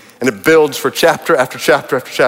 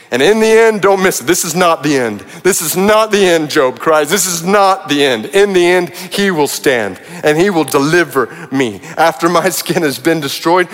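impassioned preaching; 3 semitones higher than usual. Acted. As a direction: preach it with full conviction. Builds to preaching climax.

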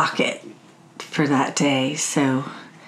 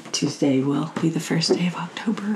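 whispering; 3 dB quieter than usual. Real, not acted. Whispered aside about date.

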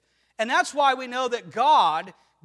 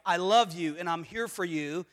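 reassuring husband; 5 semitones lower than usual. Acted. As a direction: gently reassure a wife, lightly voiced. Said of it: "a good husband reminds his wife".

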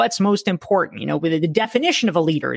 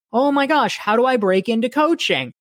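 eager asker; 6 semitones higher than usual. Retold or imitated. Mimicking a pestering asker.

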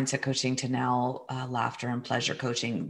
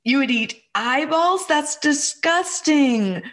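mock disgust; 10 semitones higher, 4 dB louder, slower than usual. Mother teasing son's eyeball idea.

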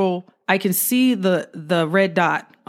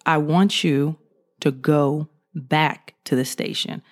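slower deep sergeant order; 3 semitones lower, slower than usual. Retold or imitated. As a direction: lower and slow, a firmer sergeant repeating the order. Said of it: "G I Joe type dude with a real deep voice".

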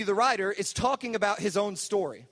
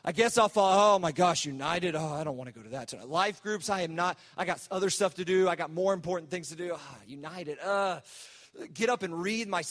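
put-on reluctant teen grumble. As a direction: play a lazy teenager who can't be bothered. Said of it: "we approach Jesus' invitation like".

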